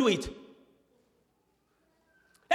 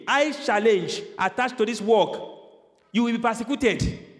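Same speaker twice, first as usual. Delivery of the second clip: ordinary talk, nothing marked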